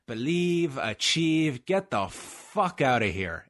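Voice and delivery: put-on scornful English fighter accent, drawn out; mock the motto in an English accent; Michael Bisping. Fighter scoffing at rival's motto, imitated English accent. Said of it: "it's in Michael Bisping's accent".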